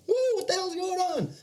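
high woozy falsetto; high dazed wonder; his own tripping head talking; head's voice. Retold or imitated. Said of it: "My head's going".

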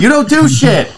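put-on a high-pitched, cranky old-man scold. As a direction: play the grumpy old man telling someone off. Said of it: "That's the old man".

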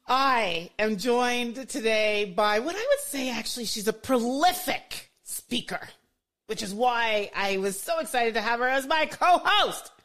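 high, slow, loud build to the guest's name; hyped host welcome. Acted. Host introducing her co-host, excited announcer voice. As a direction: pump up the crowd.

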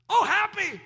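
high, drawn-out delight; happy exclamation. Shown as a demonstration. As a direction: exclaim it as a joyful response. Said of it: "it basically means happy".

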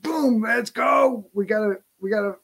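high, urgent pumped-up voice; lightly hammed alarm; mock adrenaline rush. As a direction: act out the fight-or-flight surge. Acting out fight mode.

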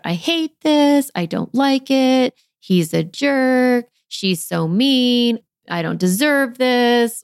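venting grumpy thoughts. Pretend. Mom voicing her grumpy thoughts, in a slow sulky vent. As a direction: let the sulky inner grumbling out. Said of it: "what am I thinking about it?".

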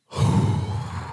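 demonstrating a full breath out; long exhale. Shown as a demonstration. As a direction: blow all the air out slowly. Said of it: "'Cause you're like".

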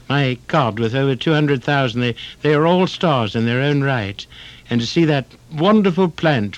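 a hint of a posh visitor raving about Dayton; Lord Fitzpuffin. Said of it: "I'd say".

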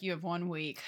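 low, soft mock threat; imitated low ultimatum. Retold Alec answering Colin, low quiet ultimatum. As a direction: lay down terms quietly and low. Hero gives his terms, retold.

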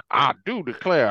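Louisiana accent. Shown as a demonstration. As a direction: quote it as someone attempting a Louisiana accent. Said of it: "a Louisiana accent".

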